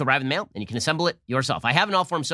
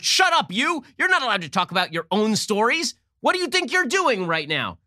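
mock angry congresswoman; 8 semitones higher than usual. Host mocking congresswoman cutting off Barr, high mock yell. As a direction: shout him down in parody. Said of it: "And she's like".

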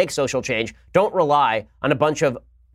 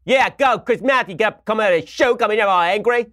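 hammed-up mock fury, pitched way up; Chris Matthews; 7 semitones higher than usual. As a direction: parody a worked-up TV host. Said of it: "have Chris Matthews go out there and say".

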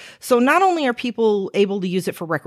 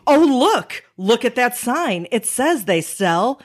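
put-on old uncle voice; 3 semitones higher, slower than usual. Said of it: "he goes".

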